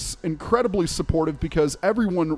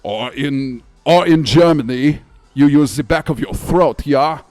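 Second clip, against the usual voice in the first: loud German accent from the back of the throat; 5 dB louder than usual. Shown as a demonstration. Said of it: "German accents work".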